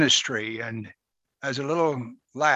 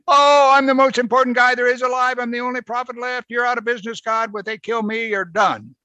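high, loud boastful whine; pompous prophet complaining to God, higher and louder; self-important Elijah; 10 semitones higher, 5 dB louder than usual. Retold or imitated. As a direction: puff yourself up, much higher.

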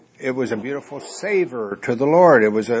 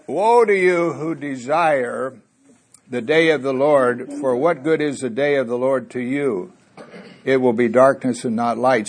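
scripture reading. Acted. Reads scripture aloud.

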